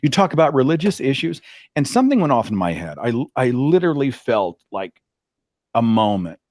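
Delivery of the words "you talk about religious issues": much higher, syrupy insistent voice; cousin insisting. Retold or imitated. Cousin returning a third time to ask, high and syrupy. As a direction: circle back sweetly for a third time. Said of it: "she's like".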